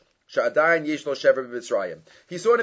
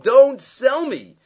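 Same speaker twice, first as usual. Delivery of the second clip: put-on higher, louder pleading cry of a boy; pleading Yosef; 10 semitones higher, 8 dB louder, much slower than usual. Yosef begging his brothers not to sell him, higher and pleading. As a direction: beg them not to sell you. Yosef's plea voiced in retelling.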